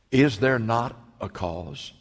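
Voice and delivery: slow, weighty question; slow earnest question. Acted. David answering his brother, slow and steady. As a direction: lay each word down slowly. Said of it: "He said".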